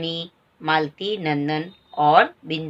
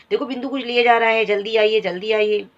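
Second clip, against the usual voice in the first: urgent call; 2 semitones higher than usual. Acted. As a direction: hurry him up, fast. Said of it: "ऐसा कहती है".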